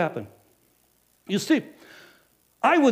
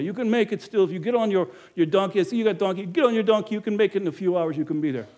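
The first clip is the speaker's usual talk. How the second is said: firm innkeeper; 4 semitones higher, 4 dB louder than usual. Acted. Innkeeper turning Joseph away.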